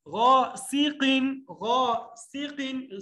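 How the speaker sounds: slow غا سیقن with a sharp hiss on س; hissing seen. Shown as a demonstration. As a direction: let the س whistle. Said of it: "سین میں سیٹھی کی آواز".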